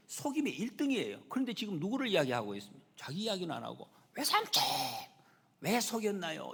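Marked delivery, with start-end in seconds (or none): 4.1-6.5 high, loud mock outcry; hammed-up wail of a cheated nephew; indignant protest. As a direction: call out accusingly, then ease down. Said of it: "이렇게 말을 하고 있어요".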